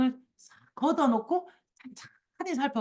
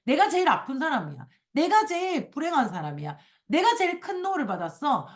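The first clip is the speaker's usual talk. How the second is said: higher-pitched imitation of a stubborn complainer; mock insistent complaining; 5 semitones higher than usual. Claiming to be the unhappiest person, mock insistent complaining. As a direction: insist on each claim, imitating self-pity. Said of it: "그걸 그렇게 계속 우긴다니까요".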